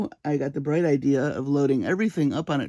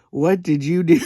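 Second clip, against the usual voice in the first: shocked mom; 4 dB louder than usual. Retold or imitated. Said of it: "her mouth is just on the floor".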